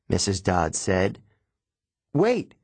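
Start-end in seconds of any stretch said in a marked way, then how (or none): 2.1-2.5 high-pitched, lightly acted yelp; mild yelp. A narrator's reading. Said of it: "Grover yelped".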